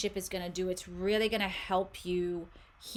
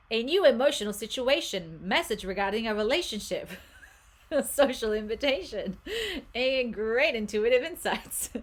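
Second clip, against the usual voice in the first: louder, lifted voice breaking into laughs; laughing while reading; 4 semitones higher, 5 dB louder than usual. Real, not acted. Reader amused by what the card says, laughing. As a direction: read it out through real giggles. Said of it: "sorry, I'm just laughing".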